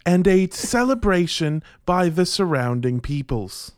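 hammed-up stately British voice; mock British accent. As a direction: proclaim it in grand mock British. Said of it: "The trick to doing a British accent".

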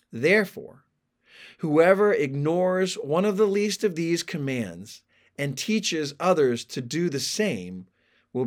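measured, emphatic Bible reading; scripture reading. A narrator's reading. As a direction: read the passage out with deliberate weight. Reads the scripture passage aloud.

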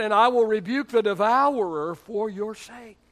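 loud scriptural declaration; God's proclamation. Acted. Pastor quotes God's promise of protection, loud proclamation.

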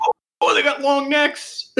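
muffled, speaking into a cup; words muffled by a cup. Real, not acted. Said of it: "You're cutting out so hard".

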